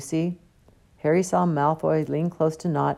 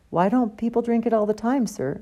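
higher, keen schoolboy question; eager; 7 semitones higher than usual. A narrator's reading. Pupil questions Slughorn, mildly eager. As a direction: ask as if you can't wait. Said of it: "said Terry Boot eagerly".

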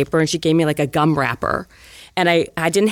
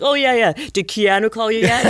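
singsong mock interest, pushed up high; mocking teasing; 5 semitones higher than usual. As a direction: imitate schoolmates jeering, higher pitched. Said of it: "like, teasing me".

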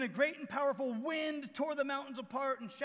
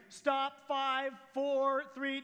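lightly voiced countdown to a child; mock parental warning count; 4 dB louder, much slower than usual. Parent counting at a child running toward the street, mildly mocked. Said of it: "a nagging, counting, controlling parent".

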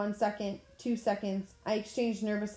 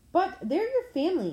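high, louder protest; 11 semitones higher, 5 dB louder than usual. A narrator's reading. Annabeth protesting to Ares, high and loud. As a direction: cry out in disbelief. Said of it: "Annabeth protested".

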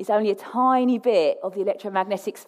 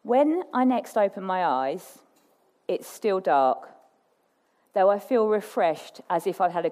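story narration. A narrator's reading. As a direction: read it like a bedtime story. Reads a story aloud.

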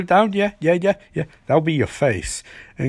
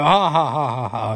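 mock villain cackle in separate ha's; villain's laugh. The old Trickster gloating over the money, mock laughing. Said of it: "And his son laughs".

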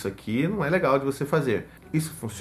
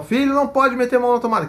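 higher, louder, fast reprimand; scolding parent; 10 semitones higher, 6 dB louder, faster than usual. Retold or imitated. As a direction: snap a quick no at the child. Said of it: "E aí você vai falar". (bronca rápida e alta)

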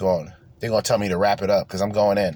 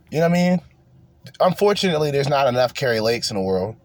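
ordinary talk, nothing marked

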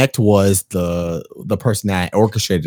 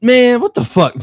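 annoyed dad; 12 semitones higher than usual. Retold or imitated. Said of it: "he was just like".

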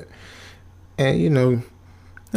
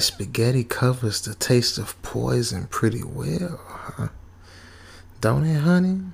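sleepy teasing tone; 4 dB quieter than usual. Retold or imitated. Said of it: "that sleepy tone hit like a".

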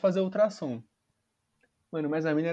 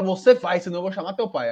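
stern mother; 4 dB louder than usual. Retold or imitated. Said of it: "a lá Hitler".

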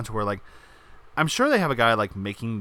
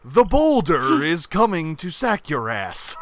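slow, raised mock warning; hammed-up threat of an incoming giant; mock-ominous announcer; 4 semitones higher, 4 dB louder, slower than usual. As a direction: announce it slowly and playfully.

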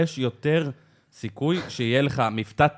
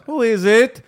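mother answering the door; 8 semitones higher, 5 dB louder, much slower than usual. Pretend. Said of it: "אמא שלה".

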